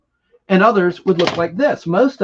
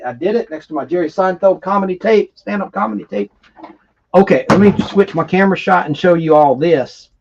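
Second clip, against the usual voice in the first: hillbilly accent. Real, not acted. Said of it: "I'm talking like a hillbilly".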